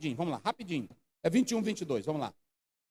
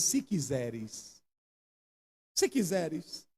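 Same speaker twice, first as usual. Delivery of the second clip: much lower, softer, very slow; humble whisper-like plea; 9 semitones lower, 7 dB quieter, much slower than usual. Acted. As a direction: murmur it humbly. Leper's hushed humble plea.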